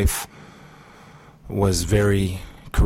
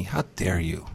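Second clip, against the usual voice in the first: quiet disgusted rebuke; 6 dB quieter than usual. Retold or imitated. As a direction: say "How dare you?" softly, full of disgust. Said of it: "was almost disgust".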